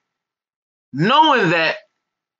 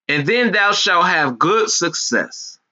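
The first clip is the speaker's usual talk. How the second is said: preacher voice; slower than usual. Acted. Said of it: "I try to get in my preacher voice".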